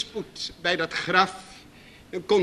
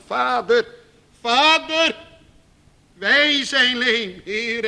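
"Vader" cried up, then a slow plea; a pleading cry to the father; mild anguished prayer; slower than usual. Acted. David praying to God, mild anguished cry. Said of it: "door de hand van Saul".

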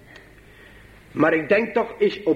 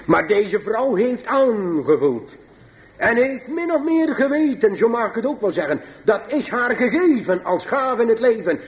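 emphatic preaching; 7 semitones higher than usual. Acted. Preekt met nadruk.

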